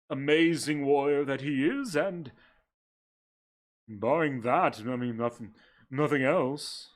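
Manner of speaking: breathy vintage purr. Acted. Sebastian explains to the party.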